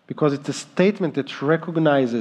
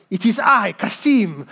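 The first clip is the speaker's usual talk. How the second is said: imitating a boy's changed voice; 3 semitones higher than usual. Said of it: "I hear him changing his tone".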